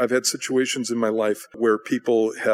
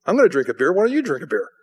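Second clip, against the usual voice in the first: acted-out pushy friend, higher pitched; mock goading, pitched up; pushy peer pressure; 4 semitones higher, 3 dB louder, faster than usual. Friend pressing a coworker to drink, pushy.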